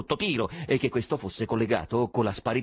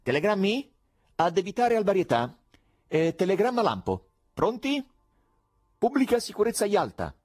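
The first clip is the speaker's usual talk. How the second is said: high, loud telephone dictation; calling down the phone; 10 semitones higher, 5 dB louder than usual. A narrator's reading. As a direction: project each phrase to a distant operator. (dettatura al telefono, acuta e a voce alta)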